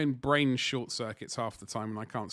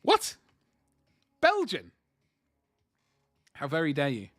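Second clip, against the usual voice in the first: retold outrage; 3 semitones higher, 5 dB louder than usual. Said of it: "I was like".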